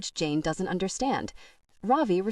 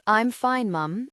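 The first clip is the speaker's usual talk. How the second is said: tense, pushed reply, a touch louder; bristling while claiming to be fine; an edge to his voice; 2 semitones higher, 3 dB louder, slower than usual. A narrator's reading. Ravi answering his mother with an edge. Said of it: "an edge to his voice".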